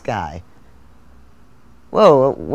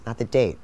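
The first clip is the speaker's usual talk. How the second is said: "date" stressed and falling, dismissive; 2 semitones lower than usual. Acted. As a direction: push "date" down firmly. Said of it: "what day of the week it is".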